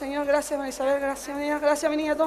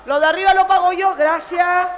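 calling out; 4 dB louder than usual. Acted. Flight attendant calls out to rows.

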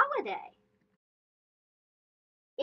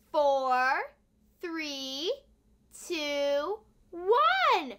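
counting backwards; much slower than usual. Shown as a demonstration. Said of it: "try it backwards".

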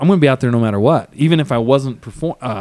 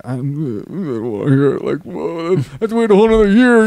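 rising, faster, half-mock frustrated rant; frustrated outburst; 4 semitones higher than usual. Retelling his reaction to the coach, mock frustration. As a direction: blurt out the disappointment, speeding up.

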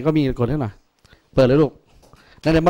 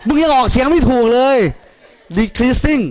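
teasing; 7 semitones higher, slower than usual. Real, not acted.

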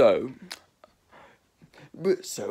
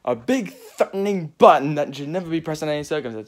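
louder dramatic; 5 dB louder than usual. Shown as a demonstration. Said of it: "repeated button line".

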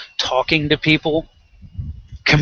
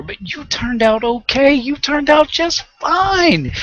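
higher, slow, sing-song sarcastic echo; mocking sarcasm; 11 semitones higher, slower than usual. Scoffing at people who excuse beatings, sarcastic high mock. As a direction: jeer the excuse back at them. Mocking the spanked-kids-turned-out-fine line.

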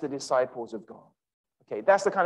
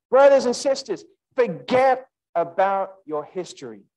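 loud appeal; 2 semitones higher, 6 dB louder than usual. Real, not acted. Preacher rising to appeal.

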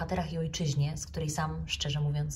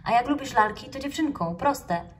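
know-it-all; 7 semitones higher, 5 dB louder than usual. Acted. Raccoon lecturing classmates.

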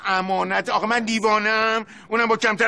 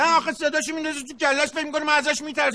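raised, higher voice, snapping at the carpet man; heated; 5 semitones higher, faster than usual. Acted. Older brother flares up at the shopkeeper, raised angry voice. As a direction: pitch climbing in irritation. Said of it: "یکم متین".

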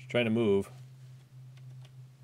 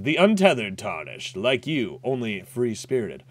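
lightly voiced sly merchant; understated shifty trader; voicing Patches. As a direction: read the merchant's lines with a hint of a sneer. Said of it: "Hi, I'm Patches".

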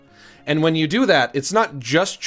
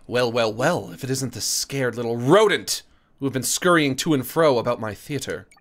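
put-on mid-Atlantic accent; 2 semitones lower than usual. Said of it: "She would definitely have a mid-Atlantic accent".

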